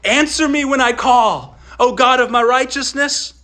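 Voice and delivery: Psalm read out with feeling; reading the psalm aloud. Acted. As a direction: read the verse as a heartfelt cry. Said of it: "Listen to it".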